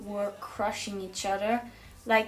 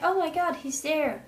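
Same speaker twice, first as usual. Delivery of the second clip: excited; 5 semitones higher than usual. Retold or imitated. Friends spot Robbie at the ball, thrilled. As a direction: squeal like you just spotted your idol.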